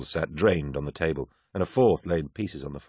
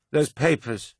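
put-on drunk woman; 8 semitones higher, slower than usual.

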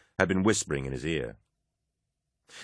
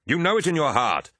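much higher, louder urgent plea; impassioned plea; 10 semitones higher, 4 dB louder than usual. A narrator's reading. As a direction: appeal to his heart. Abaddon pleading in argument.

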